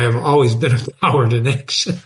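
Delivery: reading that cracks into a laugh at the end; real laugh creeping into the last words; breaking into laughter. Real, not acted. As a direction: try to read on, then give in to laughing. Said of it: "I shouldn't laugh".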